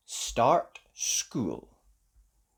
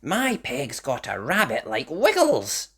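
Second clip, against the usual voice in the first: put-on little girl voice; 4 dB louder than usual. A narrator's reading. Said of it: "said Topsy".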